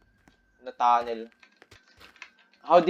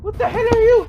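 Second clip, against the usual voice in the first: high-pitched shriek. Real, not acted. Seeing monster.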